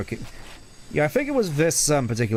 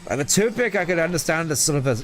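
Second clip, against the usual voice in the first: put-on exasperated sidekick, Scottish accent, higher than the narrator; Tails with a Scottish accent; 5 semitones higher than usual. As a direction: argue back in a Scottish accent. I don't remember you being Scottish.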